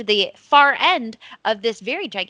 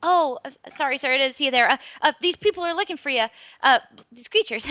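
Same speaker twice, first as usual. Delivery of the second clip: put-on nervous kid; 3 semitones higher than usual.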